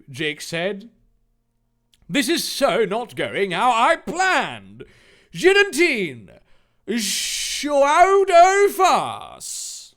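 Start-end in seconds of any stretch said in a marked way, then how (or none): 2.1-10.0 high, loud villain ordering an attack; hammed-up baddie calling his move; frustrated villain. Villain Jake plan failing.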